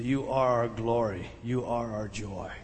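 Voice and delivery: almost confide it to the congregation; hushed tender reading. Acted. Preacher reading Paul's words to his children, hushed and tender. Verse read as intimate confession.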